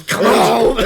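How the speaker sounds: high, loud imitation of the movie shouter; imitated outburst. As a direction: blurt it out like a rowdy moviegoer. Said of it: "and then he goes".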